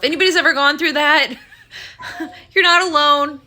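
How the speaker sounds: teary laugh, voice catching; laughing through tears. Real, not acted. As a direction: laugh while fighting tears.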